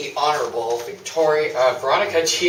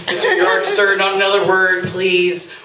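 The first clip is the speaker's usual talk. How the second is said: sharp, louder and higher cut-in to stop the client talking; urgent warning; 4 semitones higher, 5 dB louder than usual. Acted. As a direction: hush the client before he says more. Lawyer hurriedly silencing her client.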